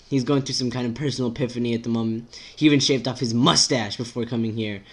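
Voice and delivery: lightly voiced, exasperated rant; exasperated character. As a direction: vent the worries in an unbroken rush. Acts exasperated character in read-aloud.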